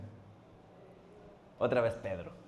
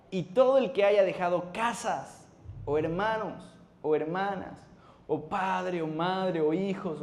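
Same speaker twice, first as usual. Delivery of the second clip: fervent scripture reading; 3 semitones higher than usual. Acted. Pastor reading Jesus' promise to the church, slow fervent proclamation. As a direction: preach each word of the promise.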